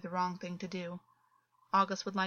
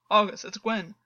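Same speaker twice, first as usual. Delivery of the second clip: urgent; 7 dB louder than usual. A narrator's reading. Calming a panicked friend.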